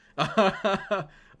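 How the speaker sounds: high, loud burst of laughter. Real, not acted. Streamer reacting to his chat, loud high laugh.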